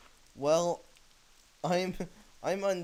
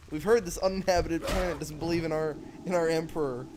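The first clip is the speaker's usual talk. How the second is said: space marine voice; 4 semitones higher than usual. Retold or imitated. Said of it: "And they invade the planet".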